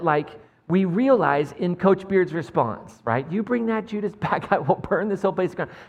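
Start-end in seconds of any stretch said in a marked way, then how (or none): 3.3-5.8 higher, laughing through the threat; amused retelling. Retold or imitated. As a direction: relish the line, half laughing. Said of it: "it's a great moment".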